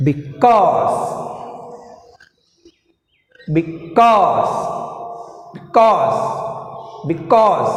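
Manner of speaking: beCAUSE, weight on CAUSE; teacher modelling beCAUSE, stress on CAUSE; stress on second syllable. Shown as a demonstration. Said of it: "According to the stress, I pronounce now".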